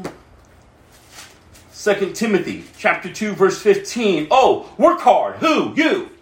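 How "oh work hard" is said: slow, loud shout of the command. Real, not acted. Preacher shouting at the congregation to work hard. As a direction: drive the words home to the church.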